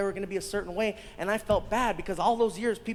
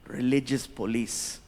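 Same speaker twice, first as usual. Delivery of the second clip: low, formal royal voice; gracious prince; 9 semitones lower than usual. Retold or imitated. Prince thanking the comic for the shows, low and gracious. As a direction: speak deep and measured, with courteous composure. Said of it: "He's like".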